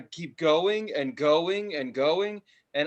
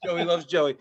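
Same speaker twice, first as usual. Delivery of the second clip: calming mantra; 5 dB louder than usual. Retold or imitated. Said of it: "Don't talk to me right now".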